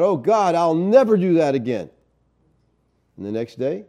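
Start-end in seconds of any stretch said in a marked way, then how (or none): 0.0-1.9 mildly pleading vow, pitched up; hint of a desperate prayer, higher voice; acted crying out. Preacher voicing believers on their knees, acted crying out. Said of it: "we cry out".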